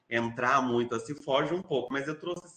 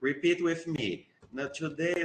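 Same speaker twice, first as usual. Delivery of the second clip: slow, slightly higher model-teacher English; imitating pronunciation teacher; 4 semitones higher, slower than usual. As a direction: drill the class on pronunciation, lightly parodied. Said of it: "esperavam que eu fosse chegar e corrigir". (professor corrigindo pronúncia, imitado)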